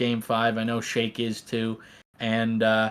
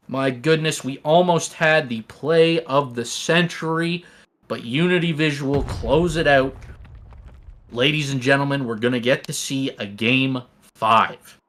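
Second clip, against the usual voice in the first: play-by-play commentary; 3 semitones higher than usual. Acted. Live esports play-by-play call.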